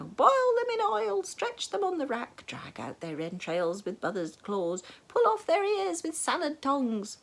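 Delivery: high, loud, slow royal rant. A narrator's reading. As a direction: roll through the tortures with mad delight. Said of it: "their ranting royal master".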